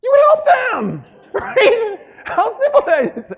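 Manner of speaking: loud, high laughing exclamation; laughing shout. Real, not acted. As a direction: burst out with the obvious answer, laughing. Laughing at obvious answer.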